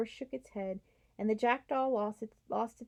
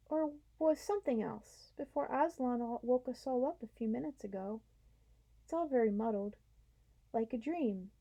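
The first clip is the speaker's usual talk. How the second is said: slow, muddled horse; 3 semitones higher than usual. Acted. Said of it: "said Strawberry very slowly".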